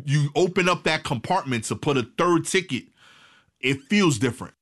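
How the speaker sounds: excited riff. Real, not acted. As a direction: rant with a laugh in it. Excited comic riff on tickets.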